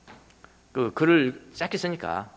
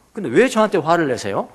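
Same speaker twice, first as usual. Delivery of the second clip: laughing reply; 2 semitones higher, 5 dB louder than usual. Retold or imitated. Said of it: "제가 뭐라고 하는지 아십니까".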